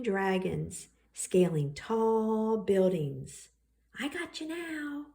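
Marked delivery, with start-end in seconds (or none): 4.0-5.1 drawing's voice. Acted. Brian's drawn dragon speaks.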